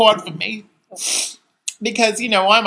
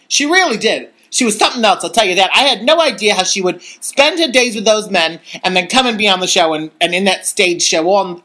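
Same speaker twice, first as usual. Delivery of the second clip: showgirl character voice. Acted. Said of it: "I'm into character".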